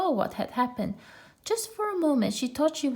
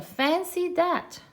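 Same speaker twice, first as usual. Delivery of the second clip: mock surprise; 9 semitones higher, much slower than usual. Kanga feigning surprise.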